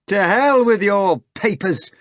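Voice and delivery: high slow laughing shout; impudent shout. Acted. Natasha shouting at the hog, high and loud. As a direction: shout it with cheek. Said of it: "Natasha shouted, laughing impudently".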